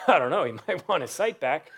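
amused, half-laughing aside; laughing mock answer. Preacher joking about what the blind man wants, laughing. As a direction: chuckle through the obvious answer.

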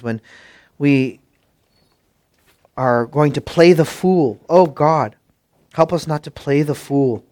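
calm closing prayer, unhurried. Acted. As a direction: pray it sincerely to the congregation.

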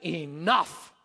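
Jesus imagined ordering judgment, roaring; commanding shout. Retold or imitated. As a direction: call down the angelic army in wrath. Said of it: "when he could have said".

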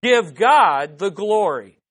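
loud, slow proclamation, phrase by phrase; big drawn-out OH, then measured, forceful phrases; leading a recitation. Shown as a demonstration. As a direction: lead the congregation in a booming chant. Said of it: "let's say all three together".

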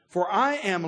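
loud and high, bursting out; fired up. Retold or imitated. The preacher voicing Elihu, loud and fired up. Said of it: "this guy's all fired up".

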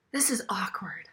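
hushed awkward whisper; whispered aside. Real, not acted. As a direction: drop to a whisper, as if embarrassed. Aside after Jesus names her story.

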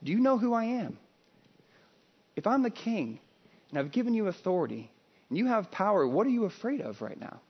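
high, commanding voice of God challenging his people; God speaking. Acted. God challenges his fearful people, high and commanding. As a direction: speak as the king asking why they fear. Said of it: "But God says".

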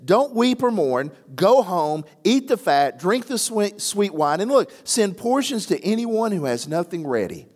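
loud, high preacher's reading; full-force preaching. Acted. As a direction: preach the verse out to the people.

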